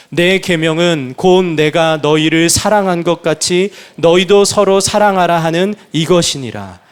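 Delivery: slow, loud, measured Bible reading; scripture read aloud. Real, not acted. Pastor leading the congregation in reading the verse, slow and loud. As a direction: read it out together, slow and solemn. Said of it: "우리 함께 읽기를 원합니다".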